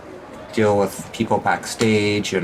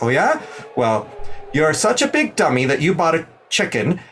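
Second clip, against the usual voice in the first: higher, cocky retort; confident comeback; 6 semitones higher than usual. Acted. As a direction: fire back with confidence. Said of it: "She's like".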